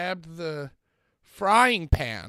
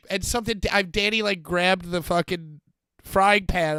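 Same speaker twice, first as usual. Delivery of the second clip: ordinary talk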